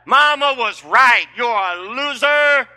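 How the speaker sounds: hammed-up insult from a wife, shouted; a wife belittles her husband in a mock shouting rant; nagging wife. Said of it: "That's a whole lot better than".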